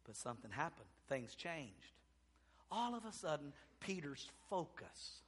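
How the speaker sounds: low, very soft and grave; quiet, suspenseful preaching; hushed turn. Real, not acted. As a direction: drop right down after the climax. Hushed turn after the climax.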